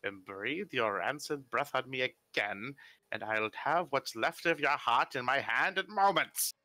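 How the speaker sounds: slow, cold threat from an elder; slow menacing old wizard. Acted. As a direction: menace them slowly.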